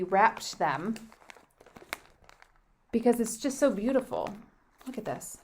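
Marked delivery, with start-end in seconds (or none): 4.9-5.4 talking while crunching chips. Real, not acted. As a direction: mouth full of crunchy snacks. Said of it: "sorry for the crunching".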